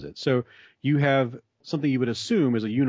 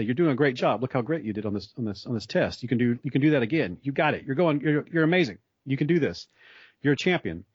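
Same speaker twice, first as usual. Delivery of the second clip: pitched up, gushing pep talk to a pupil; mock encouragement; 3 semitones higher than usual. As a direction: hype the student up like a cheering teacher. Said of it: "give them encouragement and say".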